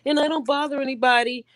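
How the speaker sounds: mock her sweet innocent act. Mocking the YouTuber, a sugary sweet innocent act. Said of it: "It's like".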